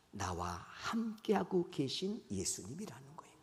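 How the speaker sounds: soft whispered 함께하고; intimate whisper. Real, not acted. Preacher whispers the core message to the congregation. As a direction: lean in and whisper the key truth.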